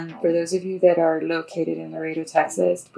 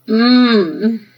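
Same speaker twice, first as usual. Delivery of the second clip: loud, higher-pitched sleepy groan; 5 semitones higher, 12 dB louder than usual. Acted. Girl woken by her mother, groaning. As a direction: groan in protest at being woken. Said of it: "groaned one".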